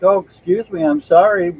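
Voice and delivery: high, sweet mock apology; dad apologizing to the neighbor, high and sugary; polite dad. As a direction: play the overly polite dad. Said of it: "dude's all like".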